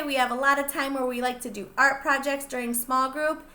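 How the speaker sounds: ordinary delivery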